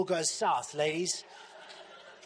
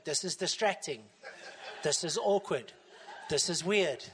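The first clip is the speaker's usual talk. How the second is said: low voice, laughing through it; laughing mock disgust; 9 semitones lower than usual. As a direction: chuckle at the awkward sight. Imagined congregation staring at feet, laughing.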